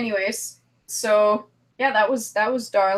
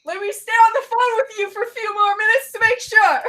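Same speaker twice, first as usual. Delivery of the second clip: creepy caller; 12 semitones higher, 5 dB louder than usual. Pretend. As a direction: play the creepy caller, laughing. Playing creepy phone caller.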